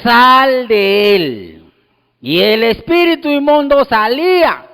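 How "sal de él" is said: very slow, stern command; Jesus ordering the unclean spirit out. Retold or imitated. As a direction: cast it out with authority. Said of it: "le ordenaba inmediatamente".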